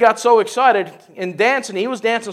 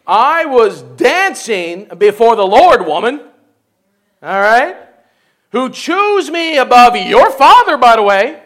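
defiant retort; 6 dB louder, slower than usual. Acted. David retorts to Michal.

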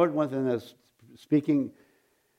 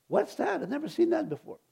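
retold scare; 12 semitones higher, 4 dB quieter than usual. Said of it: "It scared me".

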